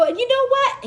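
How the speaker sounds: high-pitched shouted scolding; indignant yelling. Retold or imitated. Driver telling off officer who refused to help, indignant yelling. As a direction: yell your grievance across a distance. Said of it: "And I was yelling too".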